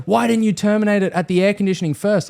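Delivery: high-pitched indignant scolding; retold angry reproach; having a go. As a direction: tell off the apprentice, exasperated. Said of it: "had a massive go at me".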